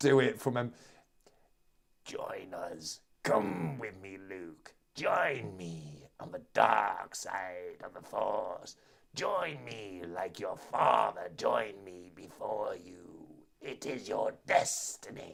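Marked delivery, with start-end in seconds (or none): 2.0-15.4 low, slow, hushed voice. Speaking to Luke as the Emperor: worst Emperor Palpatine impression. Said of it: "worst Emperor Palpatine impression".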